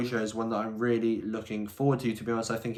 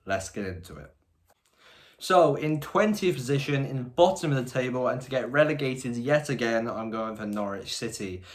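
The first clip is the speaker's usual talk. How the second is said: wearing a retainer. Real, not acted. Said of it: "I still do have my retainer in".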